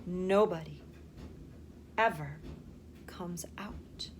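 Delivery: soft, hushed, slow secret; secret whisper. A narrator's reading. Grandpa Joe leaning close to Charlie, a soft secret whisper. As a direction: lean in and hush it like a secret. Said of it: "lowered his voice to a soft, secret whisper".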